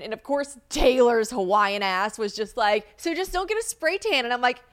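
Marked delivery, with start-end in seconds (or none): 3.0-4.2 high-pitched imitation of a friend's advice; Taylor. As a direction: toss out the advice in a high mock voice. Quoting Taylor's unwelcome advice.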